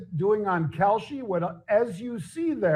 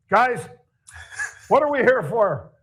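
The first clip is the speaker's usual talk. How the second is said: raised, louder pep-talk call; rally the team like a coach; lightly voiced locker room coach; quoting the coach; 4 semitones higher, 5 dB louder than usual. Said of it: "he says".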